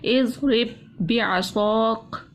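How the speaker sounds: drawn-out Quranic recitation demo; slow recitation. Shown as a demonstration. Teacher slowly reciting a verse for students, drawn out. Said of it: "इसको हम किस तरह से पढ़ेंगे".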